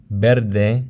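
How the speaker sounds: verde with a tapped R before d; flapped R. Shown as a demonstration. Teacher shows syllable-final R, flapped. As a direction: tap the R in verde once. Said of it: "the final consonant, a flap".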